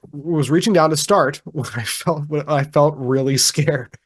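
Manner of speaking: reading through a real giggle; suppressed laughter. Real, not acted. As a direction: try to read on while laughing. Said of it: "I don't know why I'm laughing".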